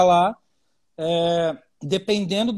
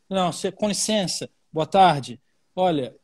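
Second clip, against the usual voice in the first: polite greeting. Shown as a demonstration. Portuguese friend demoing the polite way to start, courteous. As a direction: ease in with a gentle please and good afternoon. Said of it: "primeira coisa que ensinaram pra gente".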